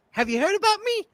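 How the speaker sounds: high falsetto question; hammed-up high voice asking; high-pitched parody line; AOC impression. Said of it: "I'd like to play A O C".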